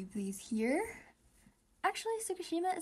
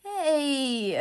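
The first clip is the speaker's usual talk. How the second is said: shouting; 2 semitones higher, 9 dB louder than usual. Real, not acted. Shouting at the screen.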